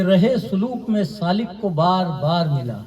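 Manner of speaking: measured Urdu verse delivery, falling line ends; poetry recitation. Acted. Poet reciting his couplets to a mushaira audience, measured recitation. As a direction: recite the couplet in set phrases with pauses.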